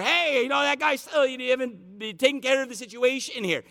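a widow poorly posing as a doctor on the phone; widow faking the doctor. Retold or imitated. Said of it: "pretending to be the doctor".

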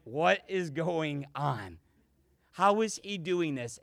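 lightly acted bewilderment, drawn out at first; mildly mimed astonishment; baffled disbelief. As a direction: wonder it aloud, slowly, as a stunned onlooker. Disciples' baffled looks, acted out.

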